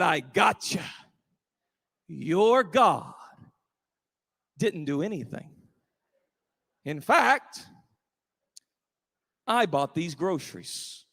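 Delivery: low-voiced gloating neighbour, paced with pauses; spring the trap, low and deliberate; smug gloating. Atheist gloats from the bushes.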